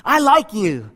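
lightly voiced boy; plain, friendly call into the cave. Boy being nice to the voice, light call. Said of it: "he ran back and he says".

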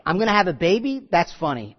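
a touch of scoffing doubt; skeptical disbelief. Acted. Sarah at ninety hearing she'll have a baby, disbelieving. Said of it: "a disbelief, like".

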